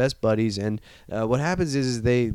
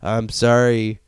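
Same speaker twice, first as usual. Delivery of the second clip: slow apology; slower than usual. Retold or imitated. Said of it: "And he's just like".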